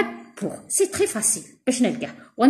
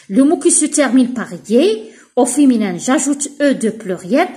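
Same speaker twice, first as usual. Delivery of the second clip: slow, louder statement of the rule; teacher stating a rule slowly; slow rule dictation; 4 dB louder, much slower than usual. Shown as a demonstration. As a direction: lay out the rule slowly for pupils. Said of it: "states grammar rule slowly".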